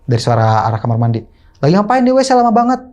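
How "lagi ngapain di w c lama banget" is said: raised, higher call toward the bathroom; mother calling to father in the toilet, raised and higher. Retold or imitated. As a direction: call it through the door, pitched up.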